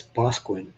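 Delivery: Boscawen said as two syllables, BOSK-win; local pronunciation. Shown as a demonstration. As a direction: clip it to BOSK-win, the middle swallowed. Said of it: "That's how it's pronounced".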